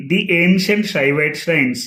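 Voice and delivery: "The" said "dee" before ancient; long ee in "The", running into "ancient"; slow teaching demo of "dee ancient". Shown as a demonstration. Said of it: "the అని పలకాలి".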